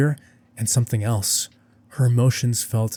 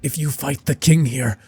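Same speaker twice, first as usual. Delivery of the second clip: pleading; 5 semitones higher than usual. Acted. Guild reps beg Bel.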